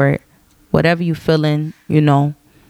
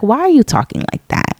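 Nyla; 8 semitones higher, faster than usual. Retold or imitated. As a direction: imitate a young niece questioning an aunt up high. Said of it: "she'll be like".

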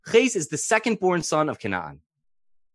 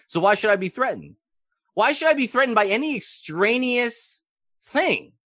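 Avraham unworried; 9 semitones higher than usual. Retold or imitated. Avraham voiced calmly.

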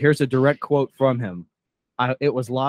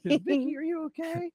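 much higher, softer falsetto concern; high mock voice; 4 dB quieter than usual. A friend asks Vicky if she is okay, falsetto mock concern. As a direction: squeak it out in a fake high voice.

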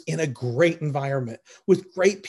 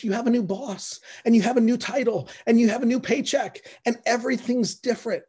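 fervent preaching; 4 semitones higher than usual. Acted. Pastor urging the congregation toward a new life, fervent preaching. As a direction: preach it with rising conviction.

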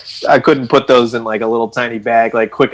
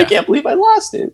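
panicked disbelief. Retold or imitated. Panicked retelling of lost piece.

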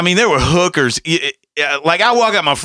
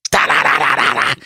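woodpecker imitation. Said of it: "Just fucking hammering on that roof".

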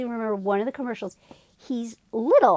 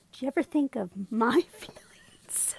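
whispered mock plea; 2 semitones higher, 3 dB quieter than usual. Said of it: "he goes".

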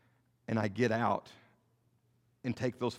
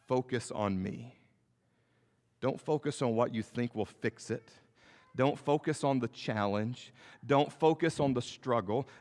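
tender Jesus. Acted. Jesus voiced, tender plea.

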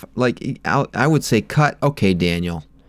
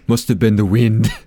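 Skyrim guard. Retold or imitated. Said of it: "Are you from Skyrim?".

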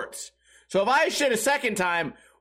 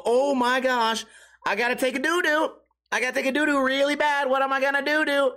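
higher, pleading panic, hammed-up; mock desperate; 5 semitones higher than usual. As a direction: act like you can't hold it in. Desperate to use the bathroom.

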